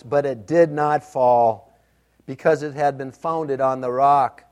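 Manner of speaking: scripture reading. Acted. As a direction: read the verse with weight. Reads Matthew seven aloud.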